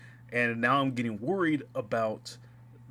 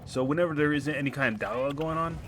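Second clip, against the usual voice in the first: helium voice through a glitchy mic; chipmunk voice; 3 semitones higher than usual. Real, not acted. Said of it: "my mic decided to go chipmunk mode".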